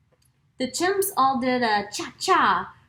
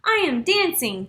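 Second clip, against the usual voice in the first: joyful cry; 7 semitones higher, 6 dB louder than usual. A narrator's reading. Gerald discovers he can dance, crying out with joy. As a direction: shout it out like you can't believe it. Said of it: "Gerald cried".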